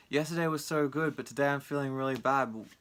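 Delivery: mock wailing lament.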